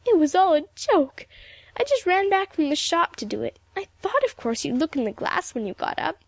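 high, stammering tearful excuses. A narrator's reading. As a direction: blurt excuses in a sobbing, halting voice. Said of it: "looked for a dry spot on her handkerchief".

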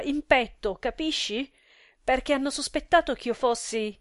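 loud, indignant wife pouring out the insult; furious outcry. Acted. Wife crying out to husband about the insult, loud and furious. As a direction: shout the outrage at him, building. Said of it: "Gli gridò la moglie".

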